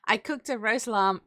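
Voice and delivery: "roast lamb" with a touch of posh British vowels; slightly posh British accent; slipped into posh British. Real, not acted. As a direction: let a hint of British poshness slip in, unplanned. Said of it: "I don't know why I went really posh there".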